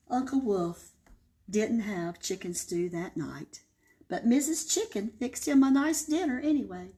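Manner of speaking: lively read-aloud storytelling voice; story narration. A narrator's reading. Librarian reading to kids, expressive storytelling.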